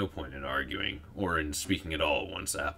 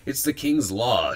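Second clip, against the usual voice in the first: loud, high, drawn-out indignation; indignant; 7 semitones higher, 9 dB louder than usual. A narrator's reading. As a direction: protest it loudly, stretching the words. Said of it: "she said indignantly".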